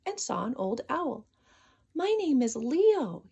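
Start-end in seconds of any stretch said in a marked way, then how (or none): 1.9-3.3 higher, slow sighing. Acted. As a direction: sigh out his name wearily. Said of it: "he sighed".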